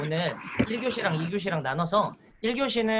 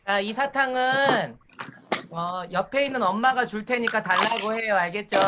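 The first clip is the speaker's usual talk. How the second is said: kindergarten teacher voice; 2 semitones higher than usual. Shown as a demonstration. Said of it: "유아라고 가정하고 제가 수업을 진행해 볼 테니까".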